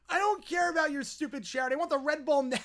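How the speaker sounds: high whiny demand breaking into a laugh; whiny bratty kid. Acted. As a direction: sneer like a spoiled child. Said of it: "the whining".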